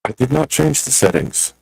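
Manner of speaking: glitchy robotic distortion. Real, not acted. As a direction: voice chopped up by a bad connection. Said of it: "you are roboting hard".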